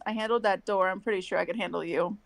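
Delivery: flat monotone, socially awkward delivery. Acted. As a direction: say it dead flat, no inflection. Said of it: "in the most monotone voice".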